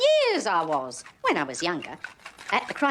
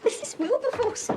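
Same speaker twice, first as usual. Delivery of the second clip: giggling through the name; can't keep a straight face; laughing; 7 semitones higher than usual. Real, not acted. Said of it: "I'm going to keep a straight face".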